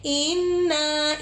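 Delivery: इन्ना with the nun not drawn long; short inna. Shown as a demonstration. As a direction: say इन्ना crisply without stretching the nun. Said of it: "इन्ना को लंबा नहीं करना".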